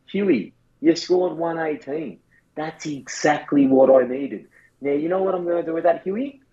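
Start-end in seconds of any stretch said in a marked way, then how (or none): 0.1-4.5 slow, satisfied praise; calmly content with the score; pleased coach voice. Retold or imitated. A coach telling Huey the score is enough, slow and pleased. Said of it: "You say".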